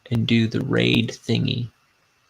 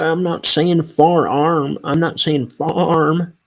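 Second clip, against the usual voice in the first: put-on higher, louder, slow scolding of a simple boy; mock scolding teacher; 6 semitones higher, 5 dB louder, slower than usual. Scolding a dim boy, slow and loud. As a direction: lecture the slow boy, drawing out far arm. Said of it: "Don't be simple. Follow what I'm saying".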